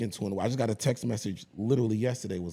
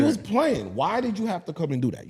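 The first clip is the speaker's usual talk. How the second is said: high, raised-voice comic grievance; mock outraged protest; 10 semitones higher, 5 dB louder than usual. Dad pretending to scold affectionate daughter, mock outraged protest. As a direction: complain as if hugely wronged, pitched way up.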